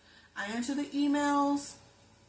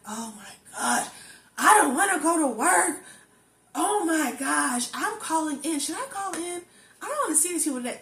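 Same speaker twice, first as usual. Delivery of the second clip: mock whiny complaint; 4 semitones higher, 6 dB louder than usual. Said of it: "be like".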